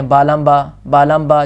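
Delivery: با لام با rattled off quickly; rushed reading. Shown as a demonstration. Teacher imitating students who read too fast. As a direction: hurry through the letters carelessly. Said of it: "جلدی سے پڑھ جاتے ہیں".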